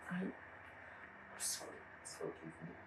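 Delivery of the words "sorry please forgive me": tearful plea. Acted. Begging after being accused.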